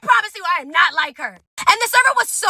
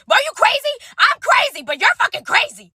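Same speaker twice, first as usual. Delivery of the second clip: incredulous yell; 7 semitones higher than usual. Retold or imitated. Yelling at friend in car.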